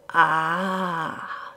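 a relieved, triumphant breath. A narrator's reading. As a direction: let the sound out on a breath. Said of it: "he breathed out".

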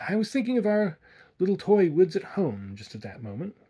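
a flustered man stumbling over his words; stammering. A narrator's reading. Simpson, startled by the guide's question, stammering. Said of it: "stammered Simpson".

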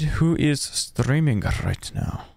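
"streaming" and "right" with trilled, rolled r. Real, not acted. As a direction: roll every r in "right now". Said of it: "I don't know why I'm rolling my R's".

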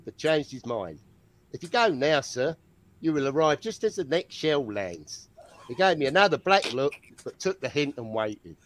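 put-on Australian storyteller; Australian accent. Competing with a co-host for the better Australian accent. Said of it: "whose Australian accent is better".

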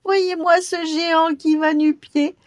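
high, loud cackling mockery; sneering goblin. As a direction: jeer at him with laughter. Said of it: "il entendit soudain ricaner".

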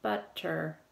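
"Butter" slowly split between the T's, But, ter; syllable by syllable. Shown as a demonstration. Teacher showing the syllable break to pupils, "Butter" split as But, ter. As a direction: break "Butter" into two separate beats. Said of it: "Between the two T's".

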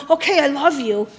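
put-on, unconvincing affection; mock a mom who doesn't sound like she means it; hollow, dutiful reassurance, imitated; imitated insincere mother. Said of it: "when Mama's standing like this going".

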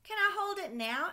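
put-on high, loud pleading child voice; eager little boy. Sam begging his dad to hold the kite, high eager child voice. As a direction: beg like a small kid who wants a turn. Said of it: "asked Sam".

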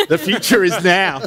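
repeating the slogan through a laugh. Pretend. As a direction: say it again, cracking up. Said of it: "I've always wanted to say that at a tech conference".

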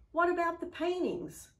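sudden high, loud protest; a bidder caught off guard by the sudden end; startled protest. A narrator's reading. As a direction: blurt it out in shock. Bidder protests auction ending.

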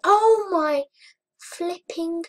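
high, loud stretched exclamation; startled outburst. Real, not acted. Gamer reacting to a sudden shock in the game, startled outburst.

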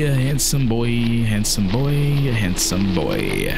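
mock sweet-talk. Player sweet-talking the monster to spare his life, hammed-up. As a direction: lay on the flattery to beg for mercy. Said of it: "coming from".

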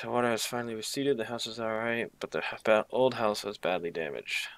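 reading notes aloud, a touch dramatic; diary reading. Acted. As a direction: read the journal entries out.

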